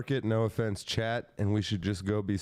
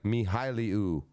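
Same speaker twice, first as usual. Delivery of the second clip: mock Japanese name; slower than usual. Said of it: "your name would be".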